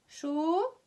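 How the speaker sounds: "Cho-" alone with the O held; isolated syllable. Shown as a demonstration. Teacher counting O sounds, one drawn-out syllable. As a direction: stretch out just the syllable "Cho-". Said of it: "Comptez un petit peu".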